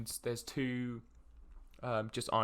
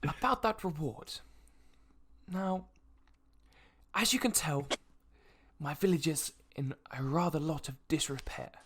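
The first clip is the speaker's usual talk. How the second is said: apologetic noble; 2 semitones higher, 3 dB quieter than usual. Acted. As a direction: admit modest means with polite dignity. Game master plays the noble.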